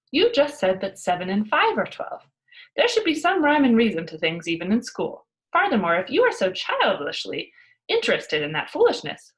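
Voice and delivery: a lightly voiced cheeky girl, scolding; Pippi voice. Pippi scolding the teacher about arithmetic, loud and cheeky.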